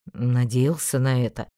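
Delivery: lightly voiced young man; Einar voice. A narrator's reading. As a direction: read him low and offhand. Einar voiced low, slow.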